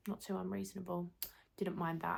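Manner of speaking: slightly hoarse, voice giving out; tired, strained voice going; losing voice. Real, not acted. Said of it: "I feel like I'm losing my voice a little bit".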